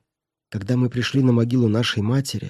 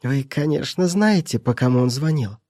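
put-on sly old woman; 3 semitones higher than usual. Housekeeper gloats.

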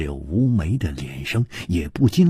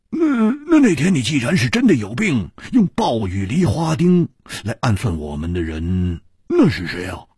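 high, stuttering and puzzled; high stammer, lightly voiced; stammering question; 5 semitones higher, 4 dB louder than usual. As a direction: stumble over the first words, then ask.

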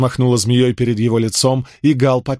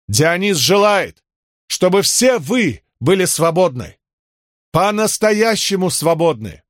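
prophesying priestess; 7 semitones higher than usual. Acted. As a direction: proclaim the vision, higher and unhurried.

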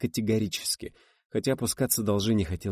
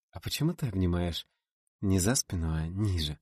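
light playfulness. Acted. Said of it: "Ритин голос обрёл лёгкую игривость".

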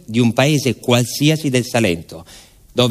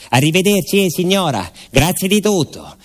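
put-on bright, much higher goodbye of a young traveller; cheerful farewell; 7 semitones higher than usual. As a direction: thank the lady warmly on leaving. Farewell on the train. (saluto allegro, voce molto più alta)

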